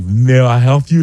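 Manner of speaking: put-on slow, mild Russian accent; imitating a welder's light Russian accent. Welder asks the homeowner, in a light Russian accent. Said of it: "like, kind of, like, Russian accent".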